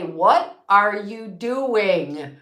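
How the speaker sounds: slow, drawn-out scolding question; mock stern demand; stern mom scolding. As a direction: stretch each word like a fed-up mother. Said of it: "and say".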